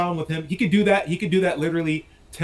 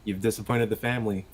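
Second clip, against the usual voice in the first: mild quiet threat; 4 semitones lower than usual. Retold or imitated. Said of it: "being like".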